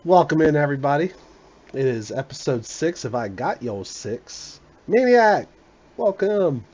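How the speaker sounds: hype host intro. Real, not acted. Podcast host opening the show.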